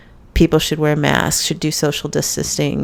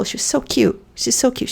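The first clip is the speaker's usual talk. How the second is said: gushing over cute; 7 semitones higher than usual. Real, not acted.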